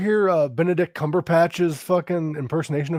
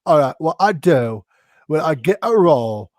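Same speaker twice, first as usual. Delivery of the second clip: Michael Caine impression. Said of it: "And Michael Caine ... said".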